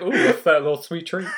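high, giggly cutesy voice; silly sweet-treat voice. Pretend. Teasing her cohost in a high cutesy voice. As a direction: coo it high like a candy-obsessed kid. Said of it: "You're like".

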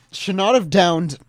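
slow, right after burping. Real, not acted. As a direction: talk through a swallowed burp. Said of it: "I'm gonna burp".

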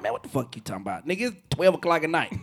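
low grumbled reply. Retold or imitated. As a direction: grumble back at a late-night caller. Retells groggy midnight answer.

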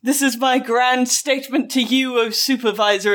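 mock-grand Shakespearean declamation. Man to his supervisor over the radio, mock-dramatic. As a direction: declaim it like a stage tragedian. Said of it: "a bit Shakespearean for him to be".

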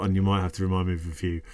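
muffled by a glass; speaking into a drinking glass; talking into a glass. Real, not acted. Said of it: "Stop talking into your glass".

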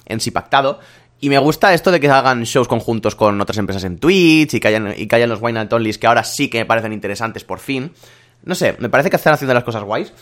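stuffy, blocked nose from a cold. Real, not acted. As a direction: talk through a head cold with a blocked nose. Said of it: "estoy constipado".

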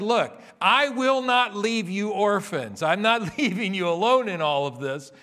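voicing Jesus. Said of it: "Jesus said".

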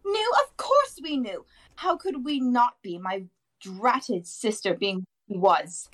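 high-pitched, indignant aunt ranting; shrieking rant. A narrator's reading. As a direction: pour out years of resentment in a high voice. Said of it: "then went ranting on".

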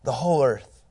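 loud, high cry of praise; ringing, exalted shout of worship; seraphim's proclamation. Acted. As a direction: proclaim it slowly and grandly, far above normal pitch. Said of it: "here's what they're saying".

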